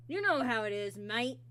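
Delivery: playful put-on Scottish lilt; lightly put-on Scottish accent. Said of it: "I just had to".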